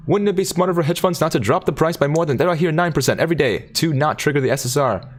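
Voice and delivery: high, loud news anchor read; newscaster voice. Pretend. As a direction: announce it like a newscaster. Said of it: "Sound more like a Korean newscaster".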